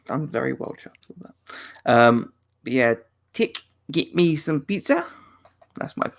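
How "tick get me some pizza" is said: careful New Zealand accent attempt. Shown as a demonstration. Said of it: "pizza in a New Zealand accent".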